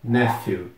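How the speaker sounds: "Nephew" with the P H said as a clear F; F sound for PH. Shown as a demonstration. Teacher explains P H sounds like F, clear F in "Nephew". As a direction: put a plain F in the middle of "Nephew". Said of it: "tem o som de F".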